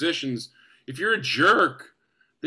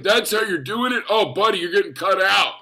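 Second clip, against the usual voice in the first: raised, higher-pitched mock disbelief; teasing; 4 semitones higher, 4 dB louder than usual. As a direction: rib the newcomer with exaggerated pity. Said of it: "he just started teasing me".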